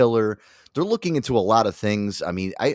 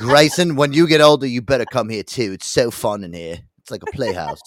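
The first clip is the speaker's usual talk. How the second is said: loud put-on accent, accidentally slipping into British; 2 semitones higher, 5 dB louder than usual. Speaking to Grayson in a put-on voice: Chris Lee accent slipping British. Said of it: "I don't know why I just went British".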